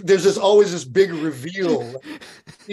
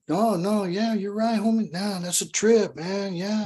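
lightly voiced agreeable cholo, a bit higher; easygoing mock homie agreement; laid-back cholo; 5 semitones higher than usual. Imitating cholos agreeing with you, lightly voiced.

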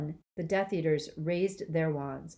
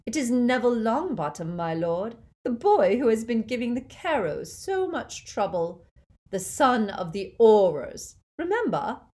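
high, loud, gleeful witch; delighted Bellatrix; 6 semitones higher, 7 dB louder than usual. A narrator's reading. Bellatrix gleefully informing her lord, high glee. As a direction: gloat gleefully to her master. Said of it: "Bellatrix gave a delighted laugh".

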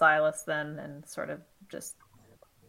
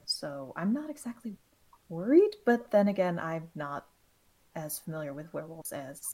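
soft, halting admission; reluctant admission; 5 dB quieter than usual. Acted. Character conceding less familiarity with werewolves, reluctantly. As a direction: admit it grudgingly, trailing quieter. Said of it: "She hates admitting that".

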